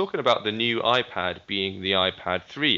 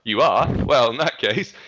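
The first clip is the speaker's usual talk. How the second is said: condescending; 6 semitones higher, 5 dB louder than usual. Retold or imitated. Mocking condescending US advert.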